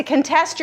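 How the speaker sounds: CONTEST said as kun-TEST; second-syllable stress. Shown as a demonstration. Teacher gives students the verb, contest stressed last. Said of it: "and then here".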